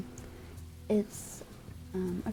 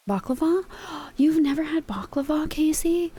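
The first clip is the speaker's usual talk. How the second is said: shocked disbelief; 7 semitones higher, 4 dB louder than usual. Real, not acted. Shocked friend never had baklava.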